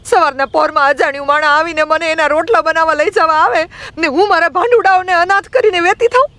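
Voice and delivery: put-on very high, protesting girl's voice; acted outraged young girl pleading her case; indignant retort. A narrator's reading. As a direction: fire back aggrieved questions in a high pitch. Girl angrily answers back the elder.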